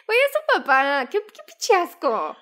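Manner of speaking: disgusted outrage. Real, not acted. Horrified by the incest story.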